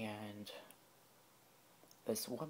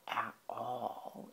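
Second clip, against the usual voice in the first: deep serious voice; 5 dB louder than usual. Retold or imitated. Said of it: "very, like, deep and serious voice".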